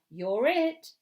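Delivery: high, punchy game cry; shouting. A narrator's reading. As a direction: shout it while tagging someone. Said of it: "he shouts".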